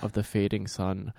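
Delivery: slow, hushed, solemn Herzog pronouncement; Werner Herzog impression. Imitating Herzog's Baby Yoda monologue, slow and hushed. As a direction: intone it softly like a grave German filmmaker. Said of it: "Werner Herzog going".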